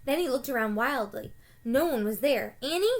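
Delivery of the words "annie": calling out. A narrator's reading. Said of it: "Jack shouted".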